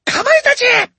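very high, loud summons; commanding cry. A narrator's reading. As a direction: call the beasts to attack. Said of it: "she cried".

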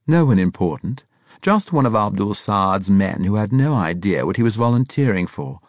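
lifted pitch, emphatic start, tossed off lightly; airy dismissal. A narrator's reading. Braithwaite dismissing a dead man as unimportant, airy. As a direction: wave it away as a trifle. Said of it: "Braithwaite replied, airily gesturing".

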